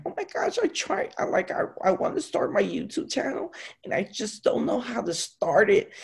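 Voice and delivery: high, breathy imitation of the girls; mock them in a high girly voice. Mocking the girls who want YouTube channels, high girly voice. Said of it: "I tell them, I'm like".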